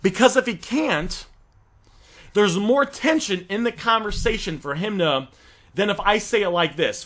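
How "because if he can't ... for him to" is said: ordinary delivery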